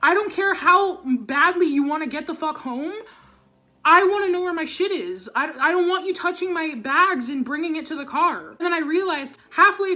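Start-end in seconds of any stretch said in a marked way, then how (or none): 0.0-8.5 angry retort. Retold or imitated. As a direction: tell them off for touching your things. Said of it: "And I'm like".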